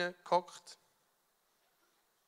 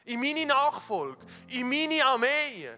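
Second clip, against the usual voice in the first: God's proclamation; 4 semitones higher than usual. Retold or imitated. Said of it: "Und er hat gesagt".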